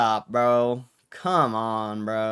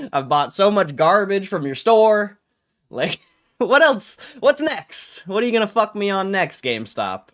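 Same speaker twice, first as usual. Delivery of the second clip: higher, louder, disbelieving outburst; exasperated rant; 4 semitones higher, 3 dB louder than usual. Real, not acted. Streamer venting at GameStop, raised disbelieving rant. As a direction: vent it, half laughing in disbelief. Ranting at GameStop, half laughing.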